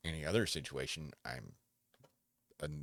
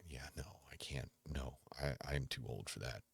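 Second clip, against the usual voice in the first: quiet retold no; 5 dB quieter than usual. Retold refusal, whispered aside.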